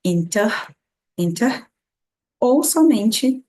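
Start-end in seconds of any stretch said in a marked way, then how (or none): 0.0-1.7 British INTER, R turned to a breath; breath at the end. Shown as a demonstration. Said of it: "um soprinho na garganta".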